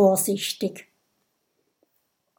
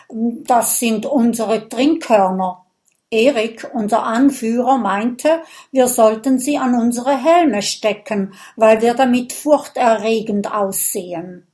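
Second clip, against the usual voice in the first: a touch sheepish, lightly louder; embarrassed Viking; 2 semitones higher, 4 dB louder than usual. Acted. Blushing Viking explains the horns, mildly sheepish. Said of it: "errötet ... und erklärt".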